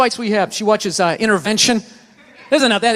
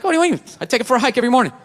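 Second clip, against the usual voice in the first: defensive; much faster than usual. Retold or imitated. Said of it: "I got, like, defensive".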